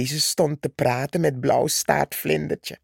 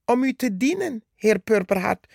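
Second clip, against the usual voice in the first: puffed-up politeness; 4 semitones higher, faster than usual. Acted. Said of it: "zei Rode Mier en zette eens extra haar borst vooruit".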